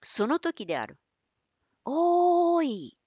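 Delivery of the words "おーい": long, high call from far off; calling out across the dark; distant call. Acted. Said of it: "遠い闇から声がした".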